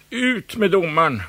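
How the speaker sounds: loud crowd jeer; shouted. A narrator's reading. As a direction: heckle the referee. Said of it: "ropades det från flera håll".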